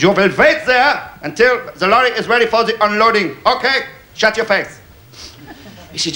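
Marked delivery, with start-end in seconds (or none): 0.0-4.8 lightly put-on stern German; a hint of a bossy German; mock German accent. Comedian again voicing the German yard boss, lightly. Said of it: "He says".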